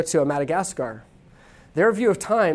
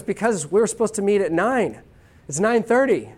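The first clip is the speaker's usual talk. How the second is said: upset German friend; 4 semitones higher than usual. Pretend. German friend complaining about the late meeting, higher and indignant. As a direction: complain about being kept waiting. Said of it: "Nathan's from Germany".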